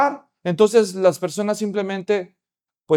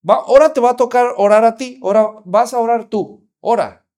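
louder, coaxing push; pastor urging; 3 semitones higher, 6 dB louder than usual. Retold or imitated. Pastor urges the little girl to pray, louder.

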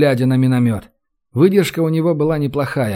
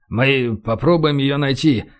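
ordinary delivery, nothing marked

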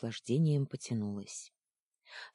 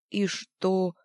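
a touch of a whimper, high; mild sob; 6 semitones higher, 5 dB louder than usual. Acted. Фитчик всхлипывает, споря с Луной, слегка жалобно. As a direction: sniffle out the question. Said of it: "всхлипнул Фитчик".

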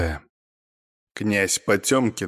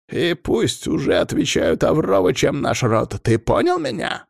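angry scolding; 6 semitones higher than usual. Acted. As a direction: berate him in anger. Head of clan berates son.

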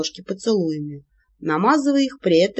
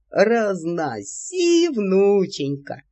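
put-on happy old man; much slower than usual. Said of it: "счастливо закричал дед".

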